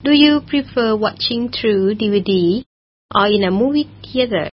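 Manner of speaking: very slow, every word spelled out; slow model reading. Shown as a demonstration. Teacher reading a model question to radio learners, very slow. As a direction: read it slowly so learners can follow. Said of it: "teacher models the question".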